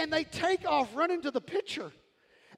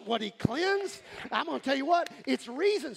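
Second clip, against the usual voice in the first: ordinary delivery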